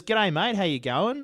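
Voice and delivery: light Scottish accent, retold; a grandfather's Scottish greeting, lightly done. Grandfather greets an Australian bartender, in a lightly done Scottish accent. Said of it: "Right, in a Scottish accent".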